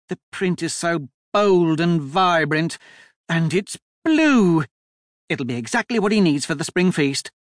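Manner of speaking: high-pitched, gushing enthusiasm; excitable Duchess, delighted. A narrator's reading. Duchess admiring a vest for Leo, high and excited. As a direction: gush eagerly, pitch lifted, key words stretched.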